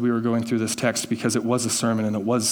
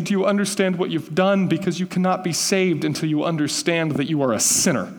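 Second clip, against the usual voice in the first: pleading; 4 semitones higher than usual. Retold or imitated. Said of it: "I think he's pleading".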